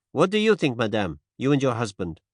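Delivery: gentle French-tinged Poirot. Acted. Poirot voiced.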